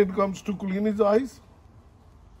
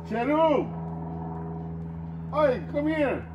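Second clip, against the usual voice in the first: sharp call; 8 semitones higher, slower than usual. Real, not acted. Calling dog sharply.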